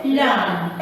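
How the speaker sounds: "lamb" ending on M, B left silent; silent B demo. Shown as a demonstration. Teacher leading class repetition, "lamb" with silent B. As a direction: close "lamb" on the M without releasing a B. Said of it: "You will only pronounce this".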